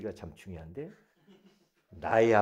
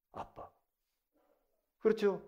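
normal talking voice

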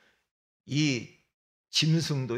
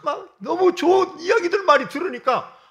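choked up; 13 semitones higher, 10 dB louder than usual. Real, not acted. Preacher recalling the kind words at church, voice breaking. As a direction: voice breaking, high and loud with emotion.

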